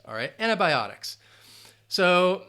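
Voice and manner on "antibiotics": antibiotics said clearly with bi as BY; pronunciation demo. Shown as a demonstration. Teacher repeating antibiotics for learners, clear model. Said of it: "How to pronounce".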